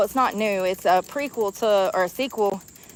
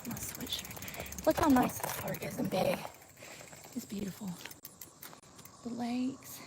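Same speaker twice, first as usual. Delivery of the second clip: out of breath; 13 dB quieter than usual. Real, not acted. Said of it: "I'm out of breath already".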